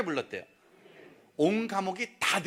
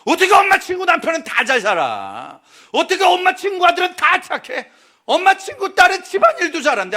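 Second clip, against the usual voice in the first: higher, louder mock complaint; whiny protest; 8 semitones higher, 9 dB louder than usual. Child grumbling to mom about her friend's children, mock whine. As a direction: complain like a sulky kid.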